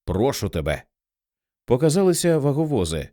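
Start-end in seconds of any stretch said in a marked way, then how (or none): 0.0-0.8 a soft, low plea to God; quiet prayer. A narrator's reading. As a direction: murmur it as a prayer. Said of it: "молився він".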